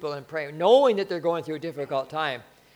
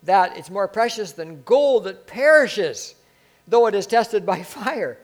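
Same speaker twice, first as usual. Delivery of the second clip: louder, slower proclamation of the verse; proclaiming loudly; 3 semitones higher, 6 dB louder, slower than usual. Real, not acted. Preacher to congregation, loud slow proclamation. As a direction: ring it out, tested by fire.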